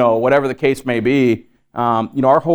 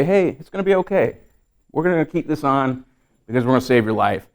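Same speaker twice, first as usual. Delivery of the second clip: calm and polite. Retold or imitated. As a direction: gently reassure the hurting patient. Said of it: "I just calmly and politely say".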